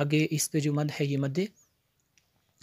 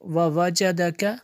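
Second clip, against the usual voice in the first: measured, resonant teaching recitation; word-by-word recitation; 4 semitones higher, 6 dB louder, much slower than usual. Shown as a demonstration. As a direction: chant each word separately with held vowels. (एक-एक लफ़्ज़ लय में पढ़ना)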